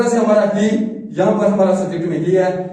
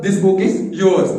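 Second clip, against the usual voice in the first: very slow, drawn-out model sentence; slow example sentence; much slower than usual. Shown as a demonstration. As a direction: read it out slowly like dictation. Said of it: "Yours का मतलब". (बहुत धीरे बोला गया उदाहरण वाक्य)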